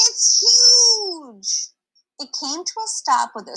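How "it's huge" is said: high, loud amazed exclaim; excited cry. Acted. Pippin marvels at the size of the train, high and loud. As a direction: gasp it out high with wonder. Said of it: "cried Pippin".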